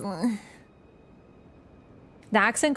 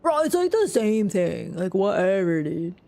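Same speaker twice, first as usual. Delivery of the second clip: dude bro voice. Pretend. Waving off a chatter's point as a dude bro. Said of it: "the dude bro voice".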